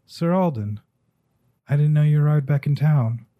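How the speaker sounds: startled dwarf barkeep calling out. Acted. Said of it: "and he goes".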